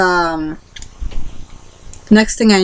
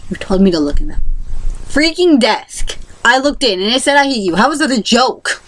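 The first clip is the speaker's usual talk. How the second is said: indignant retort; 5 semitones higher than usual. Retold or imitated. Retorting to the bully.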